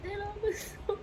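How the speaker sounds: real crying, pitch cracking high; real tears breaking through. Real, not acted. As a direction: choke up and break on the words. Breaks down retelling trauma.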